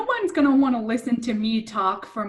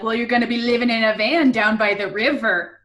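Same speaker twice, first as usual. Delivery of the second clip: mock angry; 5 dB louder than usual. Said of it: "if you get a little angry".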